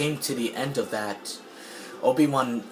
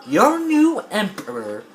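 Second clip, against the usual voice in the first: loud, high incredulous question; confused; 8 semitones higher, 5 dB louder than usual. Retold or imitated. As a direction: exclaim it in disbelief. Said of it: "Obi-Wan was confused".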